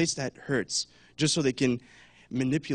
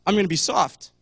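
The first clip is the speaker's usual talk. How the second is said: mock passive excuse; 6 dB louder than usual. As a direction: play the one hiding behind the verse. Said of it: "it's like".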